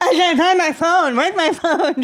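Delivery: flustered, hunting for the phone; mock lady. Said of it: "And then she's like".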